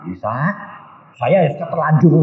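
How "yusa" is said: mild imitation of a gentle call; gentle divine imitation. Devil posing as Jesus calls the preacher, gentle. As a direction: call the name smoothly. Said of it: "Ngomongnya halusnya kayak Tuhan Yesus".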